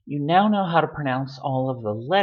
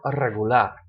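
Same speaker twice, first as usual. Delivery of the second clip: "regular" in Spanish as re-gu-LAR; stress on last syllable; 4 semitones lower than usual. Shown as a demonstration. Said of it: "which syllable to stress".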